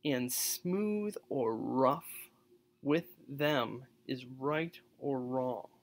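very slow with heavy stops; labored recitation showing rough sounds; slow, rough reading. Shown as a demonstration. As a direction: drag through the line to show its roughness. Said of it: "And listen to this".

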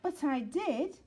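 insisting pup. Acted. Sid insists again.

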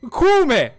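sudden high yell with a laugh; startled shout. Real, not acted. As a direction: yell his buddy's name in a fright.

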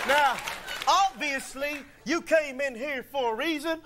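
mock TV preacher, building up; televangelist. Guard preaches to intruder like a religious channel host. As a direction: preach at the stranger like a TV evangelist. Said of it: "religious channel".

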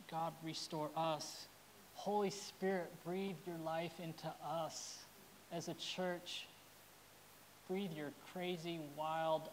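pastor praying over his church; prayer. Acted.

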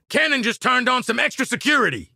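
high-pitched combat alert; urgent warning. Acted. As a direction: warn the squad mid-fight.

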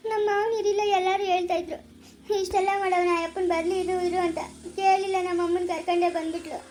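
tearful lament ending in a sob; crying complaint. Acted. Daughter upset at being brought home early, crying. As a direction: break into crying as you finish. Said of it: "ಅಳ್ಬೇಡ".

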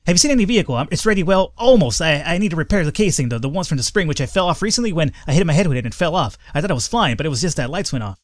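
lightly voiced rambling tweaker; twitchy slurred sniffing addict. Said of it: "my tweaker voice".

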